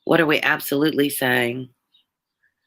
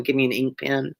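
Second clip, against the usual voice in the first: lightly shown Southern pronunciation of "pen"; casual Southern accent sample on "pen". Shown as a demonstration. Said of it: "That's how we say it down here".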